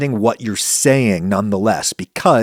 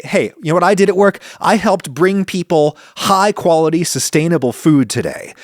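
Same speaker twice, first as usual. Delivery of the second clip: proud worker; 5 semitones higher than usual. Acted. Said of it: "They say".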